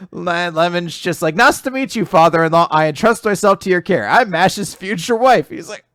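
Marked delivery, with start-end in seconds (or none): 1.3-5.5 put-on high, eager girlish voice; eager fiancée. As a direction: introduce yourself sweetly and eagerly. Lemon introduces herself as fiancée.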